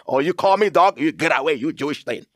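an offended listener snapping back; mock angry retort. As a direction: play the insulted hothead. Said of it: "some of us today say".

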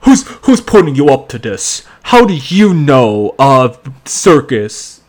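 imitated suspicious detective. Detective questioning the girl about the circus, mock suspicious. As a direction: press it out in an exaggerated accent. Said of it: "so he goes".

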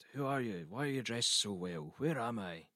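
bewildered. Retold or imitated. Dazed poet questions the goths who found him, bewildered. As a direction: act out a confused awakening. Dazed man waking among strangers.

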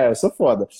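low, smug boast; cocky brag. Retold or imitated. Husband brags to his wife about his VIP card, low smug voice. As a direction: play it cool and full of yourself.

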